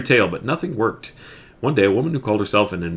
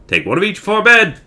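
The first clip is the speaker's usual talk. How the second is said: doctor voice; 10 semitones higher, 6 dB louder than usual. A narrator's reading.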